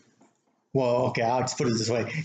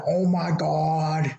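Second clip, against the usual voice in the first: imitating her; 3 semitones higher, much slower than usual. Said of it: "she sounded like fucking Jim".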